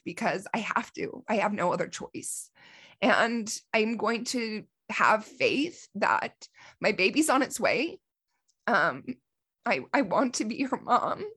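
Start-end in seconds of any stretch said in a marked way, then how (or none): 3.0-11.2 pitched up, holding back tears; tearful and trying to stay composed; real tears pushing through; emotional. Real, not acted. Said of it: "I'm sorry for my emotions".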